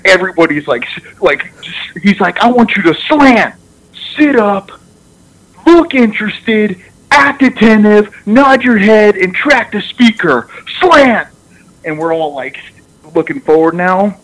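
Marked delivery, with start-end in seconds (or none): 2.4-11.3 high, forceful list of commands; coach's team speech. Retold or imitated. Coach demanding attention from the whole team, imitated intensity. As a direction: order the room to attention, pitched up high. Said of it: "he gives a speech to the whole team".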